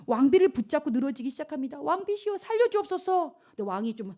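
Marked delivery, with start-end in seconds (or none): 1.8-3.3 high-pitched desperate plea; acted begging. Haman clings to the queen, acted desperate begging. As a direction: beg for mercy, hammed up.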